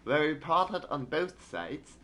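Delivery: put-on a shaky British newsreader accent; British accent attempt. Streamer resumes the British newspaper in a British accent. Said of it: "I can't do British accent".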